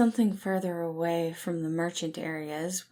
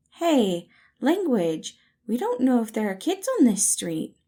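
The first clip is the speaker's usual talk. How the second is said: louder and higher, parental scold; scolding call; 6 semitones higher, 8 dB louder than usual. Acted. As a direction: tell him off like a fussing parent. Scolding Virgil for swearing.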